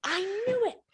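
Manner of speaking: high, loud vindicated cry; triumphant. Retold or imitated. Telling the hairdresser she was right, triumphant cry. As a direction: crow it in triumph. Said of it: "And I was like".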